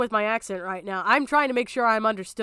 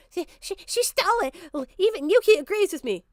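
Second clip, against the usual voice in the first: much higher, whiny mock of Levi; 7 semitones higher than usual. Streamer mocks Levi's complaint in a high whiny voice. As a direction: squeak it out like a sulky accuser. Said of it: "didn't say fucking anything other than".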